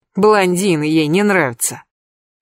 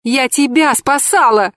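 high, slow desperate cry; a wailing shout of despair; desperate yell; 7 semitones higher than usual. A narrator's reading. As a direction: yell it close to tears. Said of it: "перешла я с крика на отчаянный рёв".

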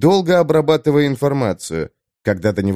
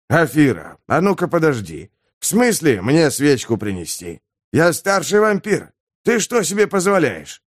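indignant elder vampire; 4 semitones higher than usual. Acted.

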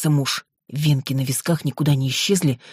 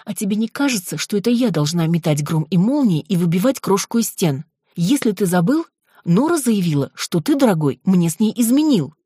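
higher, rising exasperated outburst; losing patience; 5 semitones higher, 3 dB louder than usual. Acted. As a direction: let the anger build up. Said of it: "терпение оставило меня".

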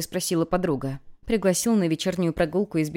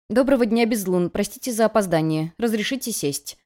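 rushed patter; 3 semitones higher than usual. Acted. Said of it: "скороговоркой выпалила я".

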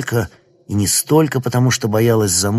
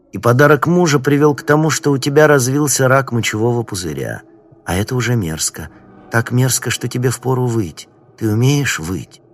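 возбуждённо, почти истерично; злорадное оживление, выше и громче; hysterical glee. Acted. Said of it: "почти истерическое оживление". (почти истерическое оживление)

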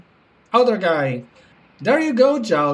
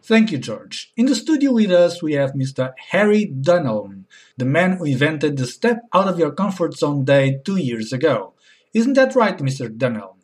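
low anchor voice; 9 semitones lower than usual. Acted.

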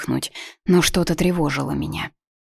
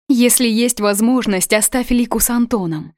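anxious; 6 semitones higher than usual. Acted. Mother adds urgent request.

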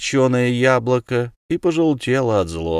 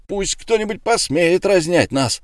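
bellowing threat; 8 semitones higher than usual. A narrator's reading. Eulenspiegel dares the tavern to separate them, yelling. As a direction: yell a challenge at the room. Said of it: "заорал".

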